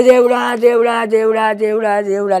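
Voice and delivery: a mother's raw wail of grief; crying out to God. Real, not acted. Grieving mother cries to God. (దుఃఖంతో దేవుడిని పిలుస్తూ ఏడుపు)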